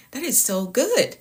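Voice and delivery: unvoiced whisper of "That is so good.". Real, not acted. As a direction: whisper "That is so good." under breath. Whispered then repeated aloud.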